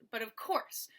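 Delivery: "but of" unstressed, "course" stressed. Shown as a demonstration. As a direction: lean on "course" after a light "but of". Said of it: "So you stress the course".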